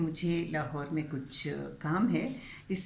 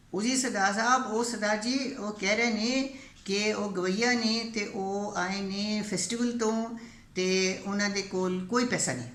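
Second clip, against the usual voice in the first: raised, summoning shout; calling out; 4 semitones higher than usual. Retold or imitated. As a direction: holler for the boss from a distance. Bandit calls out to the chief.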